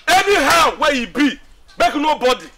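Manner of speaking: drawn-out, forceful warning; firm warning. Acted. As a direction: lay down the law loudly. Warning friends to keep out.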